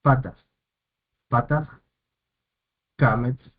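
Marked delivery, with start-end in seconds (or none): 0.0-1.7 "Patas" stressed on PA; first-syllable stress. Shown as a demonstration. Teacher showing where the accent falls, stress on the first syllable. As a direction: say "Patas" twice, each leaning on the first syllable. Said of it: "el acento recae sobre la primera sílaba".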